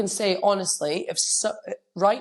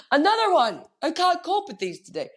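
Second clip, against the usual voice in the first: higher, louder excited cry; overwhelmed excitement; 11 semitones higher, 3 dB louder than usual. Retold or imitated. Coach reacting to a client's praise, excited and overwhelmed. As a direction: burst out, touched and overwhelmed. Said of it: "I was just like".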